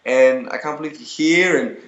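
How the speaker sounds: gushing fan. Retold or imitated. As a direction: pour it out like a starstruck fan. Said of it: "I was like".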